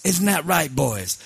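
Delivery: lightly voiced Sicilian don; Sicilian mob boss. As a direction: check with the henchmen in a hint of Sicilian accent. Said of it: "Sicilian mob boss once".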